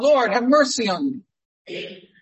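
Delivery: loud pleading call, mercy trailing off; a blind beggar calling out to Jesus; mild mock cry for mercy. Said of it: "and a man cried out".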